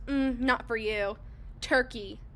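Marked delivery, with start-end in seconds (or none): 0.1-1.2 slow, lightly voiced snooty verdict; dismissive judgment. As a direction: look them over and dismiss them. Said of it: "looks me up and down and goes".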